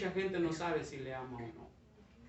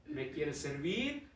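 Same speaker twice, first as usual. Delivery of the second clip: lower, soft, slow question; gentle master; 3 semitones lower, 4 dB quieter, slower than usual. Acted. Master softly asking the bamboo again, slow quiet. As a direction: ask it quietly and patiently.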